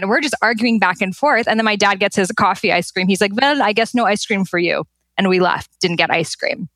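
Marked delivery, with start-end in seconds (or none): 3.4-4.8 lightly imitated Persian dad; mild put-on Iranian accent. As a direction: dismiss them with a touch of Persian accent. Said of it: "Your Iranian imitation is spot on".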